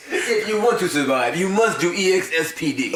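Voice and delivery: lightly put-on German-Russian accent; mock German-Russian accent. Friend joining in on the doctor impression, mock German-Russian accent. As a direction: imitate the instructor's foreign accent. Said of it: "think of that voice".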